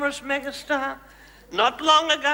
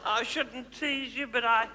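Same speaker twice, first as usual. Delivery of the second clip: soft mock confession; 4 semitones lower, 7 dB quieter than usual. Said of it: "Aren't I a tease".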